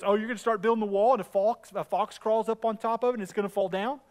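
loud, hurried mock taunt; imitating a jeering sidekick; mocking tag-along heckler. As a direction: rattle off a silly jibe. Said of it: "I laugh at this 'cause I can just see it".

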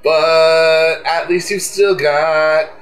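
lightly hammed-up upbeat sign-off; mock cheerful outro. Asked to sing the show out, a mock-cheery outro over music. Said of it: "you can sing us out".

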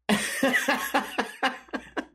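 long high laugh; real laugh. Real, not acted. Laughing at the made-up brother bit. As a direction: crack up at the memory.

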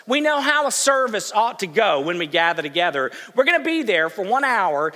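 loud, hurried mock grumble of folks wanting lunch; hammed-up impatient pew-sitter; impatient churchgoers. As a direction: play the restless congregation itching to leave. Preacher voicing impatient churchgoers.

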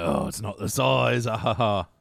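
a drawn-out line with a spoken mock chuckle; Jason Statham. Co-host imitating the film's star, hammed-up tough guy. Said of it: "Statham's like".

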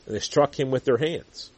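ordinary delivery

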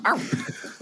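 short silly bark "arf"; dog impression. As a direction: bark like a dumb pet. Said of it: "That's my dog impression".

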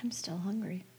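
whispering. Real, not acted. Hungry after-show banter.

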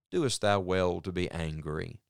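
patient father. Retold or imitated. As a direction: ask gently like a patient father. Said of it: "speaking like a very patient father".

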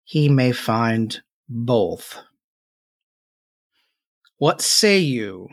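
very slow crone; a lightly voiced old witch asking; old hag. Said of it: "the crone speaks again".

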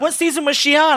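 high, loud squealing fan voice; mock fan question. Fans asking about a season.

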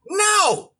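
high, sharp, certain no; no with full conviction. Retold or imitated. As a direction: snap a final no with full conviction. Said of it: "with full conviction".

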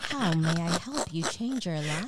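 lightly voiced perky phone receptionist; Angie's superstar phone voice. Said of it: "am I turning my white girl, uh, superstar voice?".

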